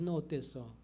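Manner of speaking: put-on soft, gentle questions to a child; quietly coaxing a child to reflect; gentle questioning. Shown as a demonstration. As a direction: ask it softly, like a caring parent. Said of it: "그럴 때 부드럽게 얘기하면서".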